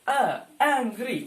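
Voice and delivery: एंग्री eased in slowly after a short a; slow model word. Shown as a demonstration. Teacher slowly builds एंग्री from its first sound. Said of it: "ए किस तरह से अपना sound".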